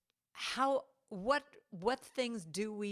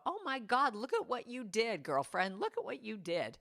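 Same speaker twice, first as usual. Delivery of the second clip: self-cheering; 3 semitones higher than usual. Pretend. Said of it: "look at yourself in the mirror and go".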